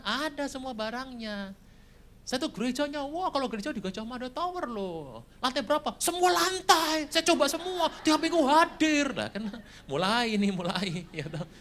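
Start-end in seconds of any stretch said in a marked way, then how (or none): 2.3-9.2 hammed-up show-off; bragging churchgoer. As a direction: brag about your piety. Braggart about church attendance.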